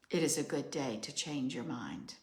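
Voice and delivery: measured, ritual oracle cadence; steady solemn litany; incantatory reading. Acted. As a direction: read it like a message from the planet. Reads her channeled journal message.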